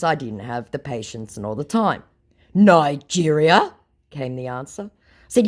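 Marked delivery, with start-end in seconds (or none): 2.5-3.7 mock puzzled. Scammer's puzzled reply voiced.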